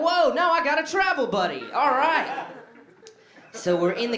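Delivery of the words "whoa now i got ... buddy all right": high, loud laughing cheer; giddy delight; thrilled. Retold or imitated. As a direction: celebrate the new travel buddy. Thrilled about travel buddy.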